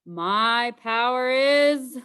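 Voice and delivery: slow, drawn-out mock menace; hammed-up tough-guy warning; trying to sound threatening. A narrator's reading. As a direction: bluff a threat you can't back up. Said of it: "doing my best to sound threatening".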